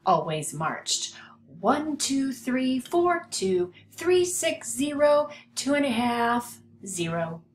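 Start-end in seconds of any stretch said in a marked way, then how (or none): 1.6-7.4 silly counting. A narrator's reading. Tacky marches out of step.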